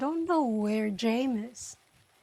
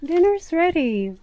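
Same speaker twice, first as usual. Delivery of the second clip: calling out dinner; 5 semitones higher, 7 dB louder than usual. Real, not acted. Finds James, announces dinner.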